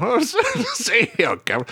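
high, laughing British impression; mock British accent. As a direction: echo it in a hammed-up British accent. Echoes the mock British line.

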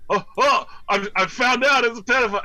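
high, loud frantic outburst; Doctor Loomis. Acted. Host imagines the doctor calling a man out, frantic high voice. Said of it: "when Doctor Loomis calls him out".

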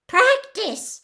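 high, loud outraged elf; furious squeal. Acted. Winky outraged at Harry's remark, furious squeal. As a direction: squeal it in disbelief and fury. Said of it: "squealed Winky furiously".

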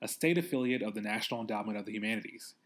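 measured podcast announcement read; scripted show intro; sponsor read. Acted. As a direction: read the credit and disclaimer neatly.

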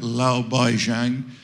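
put-on slow, careful Chinese accent on Lao Baizhang. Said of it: "so my Asian accent probably isn't very good".

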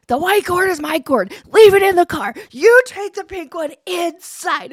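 loud, high hammed-up scolding; doubling down angrily. Mom retelling scolding her daughter, mock furious. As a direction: lay down the law, slowing for the last order. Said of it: "now and I'm a, like, a fifteen".

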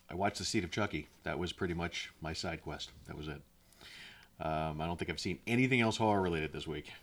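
muffled voice, far from the mic. Real, not acted. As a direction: sound muffled, as through a wall. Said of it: "it sounds like you're muffled".

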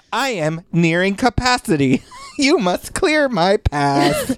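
slow laughing robot; drawled robot command, giggling. Pretend. Playing the robot.

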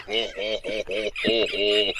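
lightly voiced Hulk Hogan laugh; a low hint of Hulk Hogan chuckle; jolly ho ho ho. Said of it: "Hulk Hogan".

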